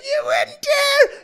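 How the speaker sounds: high, slow quote broken by laughter; laughing mock quote. Retelling the film's line to a friend, laughing through it. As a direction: quote the line while cracking up. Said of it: "And then he's like".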